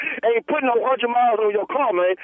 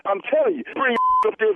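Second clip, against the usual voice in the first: laughing; 7 semitones higher than usual. Real, not acted. Laughing while threatened.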